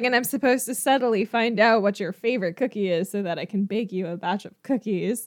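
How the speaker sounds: usual speaking voice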